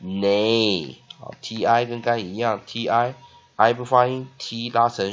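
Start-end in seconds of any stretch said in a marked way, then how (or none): 0.0-1.0 "nay" with a sustained long A; teacher modelling a drawn-out "nay"; long A vowel. Shown as a demonstration. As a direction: hold the vowel in "nay" for learners. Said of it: "所以A念长母音".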